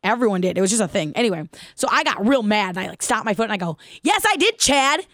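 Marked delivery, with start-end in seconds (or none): 4.0-5.0 high, loud indignant shout; loud angry retort. Retold or imitated. Girl yelling back at the bully Chad, loud and indignant. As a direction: stomp and yell it back. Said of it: "I said it real loud".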